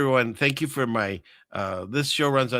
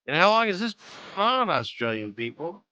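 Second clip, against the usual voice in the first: incredulous; 8 semitones higher than usual. Real, not acted. Asks about creepy road footage.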